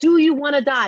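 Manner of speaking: high-pitched yelling. Speaker recalls confronting a woman about killing herself, retelling screaming at her. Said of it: "screaming at her".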